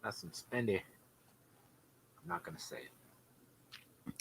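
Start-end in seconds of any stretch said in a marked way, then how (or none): 2.2-4.1 slow hushed teasing whisper. Real, not acted. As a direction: hold back the joke, whispering.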